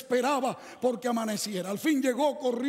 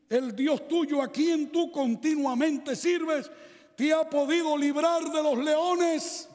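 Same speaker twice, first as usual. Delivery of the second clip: king calling out; 4 semitones higher, slower than usual. Acted. Preacher voices the king calling.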